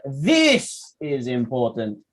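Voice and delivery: slow, deliberate "This is important"; emphatic. Shown as a demonstration. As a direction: lean on each word of "This is important". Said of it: "you want to emphasize".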